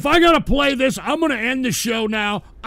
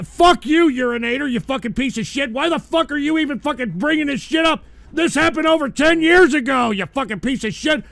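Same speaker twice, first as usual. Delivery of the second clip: angry shout. Real, not acted. Furious rant at the prank callers.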